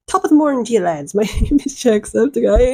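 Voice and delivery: put-on jokey stock Irish greeting accent; playful Irish-accent impression with a laugh; hammed-up Irish accent. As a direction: parody a cheery Irish YouTuber. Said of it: "an Irish accent".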